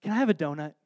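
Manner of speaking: soft, hesitant little request; bashful child. Retold or imitated. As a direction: imitate a shy daughter asking dad for a treat. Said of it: "she gets all bashful".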